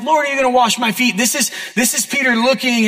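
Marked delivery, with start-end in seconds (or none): 0.0-1.2 quick and light, slightly high; casual, unemphatic. Shown as a demonstration. The mild version of Peter's question, quick and casual. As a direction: toss it off fast with no emphasis. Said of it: "this is not just something like".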